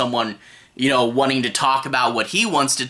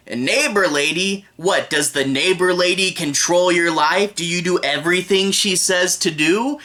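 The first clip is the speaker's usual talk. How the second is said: angry principal; 3 semitones higher than usual. Retold or imitated. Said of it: "an angry principal".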